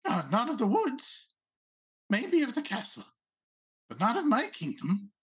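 a hint of a haughty rabbit noble; Rabbit Prince voice. Prince corrects the player.

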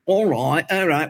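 shaky grasp of Liverpudlian; attempted Scouse accent. Shown as a demonstration. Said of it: "it was Scouse. It was Liverpool".

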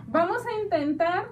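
loud, through laughter; laughing. Real, not acted. Host trying to get serious with co-host, laughing. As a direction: try to speak while laughing loudly.

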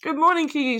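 talking with a mouthful; words round a bite of toast; mouth full. Real, not acted. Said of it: "Kate's starting the, uh, the episode eating toast".

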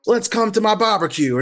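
high, hammed-up Southern American invitation; mocking Southern American accent, bright and big. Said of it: "all these weird accents of ridiculousness".

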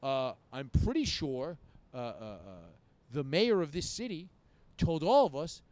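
put-on halting drunken self-justification; retold drunk self. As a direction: play drunk, stalling on uhs before the big claim. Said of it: "You're, like, drunk outside".

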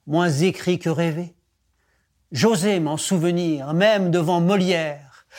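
measured, lyrical poem reading; poetry recitation. Acted. The teacher recites Musset to the class, in lyrical recitation. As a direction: let the verses breathe and sing.

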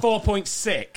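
high, very slow score reveal; slow drawn-out reveal. Acted. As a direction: stretch every word like a verdict.

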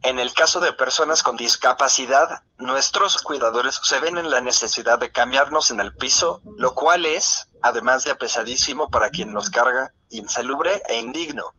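computer text-to-speech voice. Real, not acted. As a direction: read it like a synthesized voice. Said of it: "esta es mi voz sintetizada". (voz sintetizada de computadora)

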